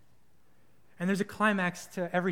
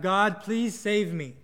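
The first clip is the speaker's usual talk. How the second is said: slow, stretched-out plea; praying out; 2 semitones higher, much slower than usual. Acted. Guy at the roof's edge prays out, drawn-out plea. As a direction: draw out each word as an appeal. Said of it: "once again prays out".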